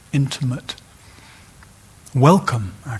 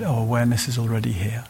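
whispered soft oh of realization; much faster than usual. Retold or imitated. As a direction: breathe it as a quiet discovery. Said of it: "we remember".

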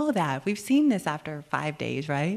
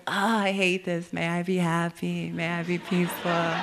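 mock grumbling metta; 4 dB louder than usual. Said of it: "It was like".

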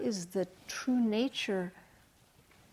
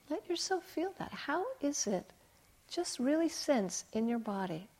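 soft, lifted, tender coaxing; gentle guiding; 6 semitones higher, 4 dB quieter than usual. Retold or imitated. Therapist retells guiding a frightened client into feeling, gentle guiding. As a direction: retell a therapist softly easing someone inward.

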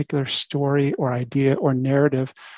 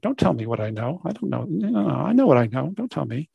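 mildly mulish mock protest; stubborn. Voicing our stubborn habits to the listeners, stubborn. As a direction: dig in and refuse to listen, lightly acted. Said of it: "we can be quite stubborn".

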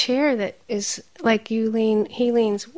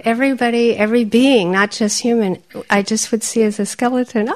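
animated quote; 3 semitones higher, 5 dB louder, faster than usual. Retold or imitated. Quoting teacher, voice raised.

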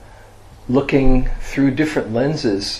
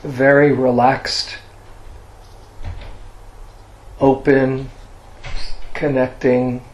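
guided meditation. Real, not acted. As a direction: guide listeners gently into resting, leaving long silences.

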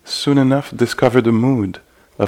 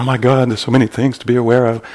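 fast, slightly louder overwhelmed thought; mock overwhelm; 3 semitones higher, 4 dB louder, much faster than usual. Teacher voicing meditators swamped by things to notice, mock overwhelmed. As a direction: rattle it off as if there's too much to track.

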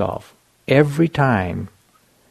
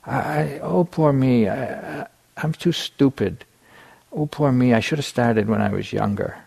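mock whiny inner voice, pitched up on each oh; whiny self-pity; 3 semitones higher than usual. Monk mocking his own inner complaint, mock whiny. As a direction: mimic the mind's whining self-pity lightly. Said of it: "And it'd be".

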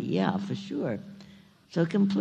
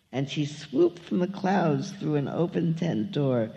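lively, lilting read-aloud of rhyming verse; story narration. A narrator's reading. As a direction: read it like a picture book to children. Reads a children's story aloud.

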